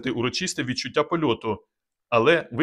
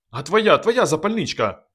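slow, louder, higher outburst; sudden shout; 5 semitones higher, 3 dB louder than usual. A narrator's reading. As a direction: burst out with the idea. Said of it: "раптом закричав Казик".

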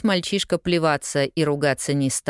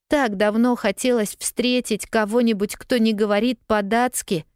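lightly voiced girl; 7 semitones higher than usual. A narrator's reading. Pollyanna's voice.

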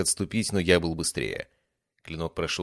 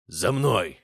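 barked command; 4 dB louder than usual. Acted. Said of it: "рявкнул он".

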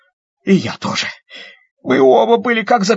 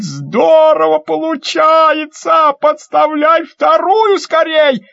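excited shout; 9 semitones higher, 3 dB louder, slower than usual. Acted. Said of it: "Мишка кричит".

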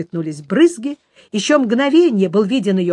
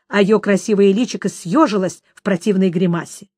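ordinary delivery, nothing marked

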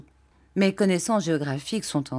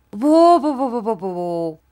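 playful dog noises; 4 semitones higher, 6 dB louder than usual. Acted. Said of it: "pour tâcher de me faire rire".

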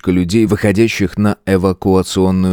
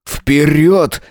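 higher, sharp barked command; barked order; 6 semitones higher than usual. A narrator's reading. Lawyer to frozen headmistress, barked command. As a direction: snap her out of it with one word. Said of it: "рявкнул Артём".

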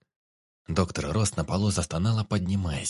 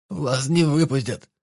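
frightened woman; 6 semitones higher, 5 dB louder, slower than usual. A narrator's reading. Captive doctor warns Vik.

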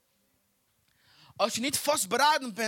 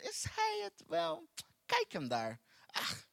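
doubting spouse; 8 semitones higher, 8 dB quieter, slower than usual. Retold or imitated. Preacher imitates a hesitating spouse eyeing her husband, scornful. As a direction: sneer at him like a regretful spouse. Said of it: "beginnen ze te aarzelen".

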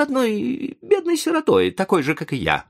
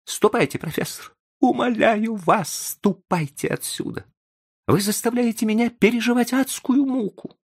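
very high, anguished pleading outcry; desperate cry. A narrator's reading. Young man begs the professor to leave, crying out in despair. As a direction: cry it out in despair, pitched right up. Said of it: "в отчаянии вскричав".

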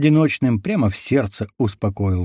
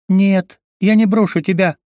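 higher, louder, pleading no; desperate refusal; 9 semitones higher, 4 dB louder than usual. A narrator's reading. Leona refuses to abandon the wounded forester, desperately. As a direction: refuse to leave him, voice rising.

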